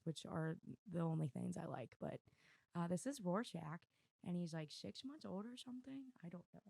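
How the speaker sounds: ordinary talk, nothing marked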